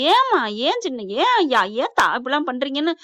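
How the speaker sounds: mild mock yell, swooping pitch; retold yelling. Aunts scolding over the money, mildly acted yelling. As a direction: imitate indignant scolding without full volume. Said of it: "பயங்கரமா கத்துறாங்க".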